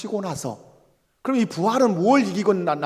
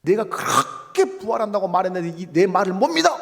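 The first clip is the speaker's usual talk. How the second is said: indignant scolding, hammed up; mock scolding. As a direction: act out an exasperated telling-off. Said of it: "이렇게 호통을 치지 아니하시고".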